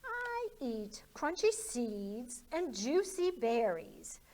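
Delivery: slow, dainty little mouse; lightly voiced sweet mouse; gentle mouse reply. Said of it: "replied the mouse".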